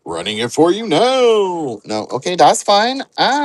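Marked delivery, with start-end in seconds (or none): 0.0-1.8 slow, showy TV host read; TV show host voice. Shown as a demonstration. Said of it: "I sounded like I was on a show right then".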